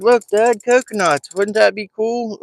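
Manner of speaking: lightly voiced excited kid; kid's excited voice. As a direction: voice the son, eager and thrilled. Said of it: "he's like".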